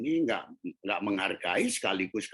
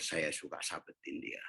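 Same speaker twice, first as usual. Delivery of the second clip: hushed, much softer admission; whispered confession; 4 semitones lower, 9 dB quieter than usual. Real, not acted. Preacher admitting he used to hit her, whispered. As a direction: drop to a whisper, ashamed. Aside admitting beating child.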